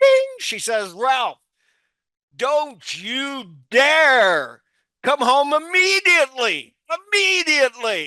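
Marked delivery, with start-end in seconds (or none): 0.9-8.1 angry, high scolding, dare drawn out. Retelling a wife's angry order over the car screen: imitating wife's angry voice. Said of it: "my wife's angry face pops up again".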